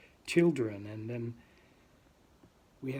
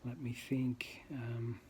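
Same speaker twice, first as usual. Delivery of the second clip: whisper; 6 dB quieter, slower than usual. Real, not acted.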